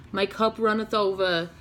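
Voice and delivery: light, put-on New Jersey accent. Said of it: "like, a New Jersey accent".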